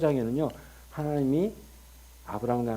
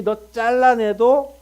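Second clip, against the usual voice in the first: slow declaration; 8 semitones higher, 7 dB louder, much slower than usual. Acted. God promising, slow loud.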